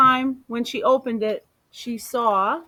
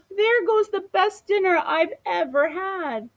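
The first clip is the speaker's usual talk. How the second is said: mild sadness; 9 semitones higher than usual. A narrator's reading. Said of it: "Amu sniffled".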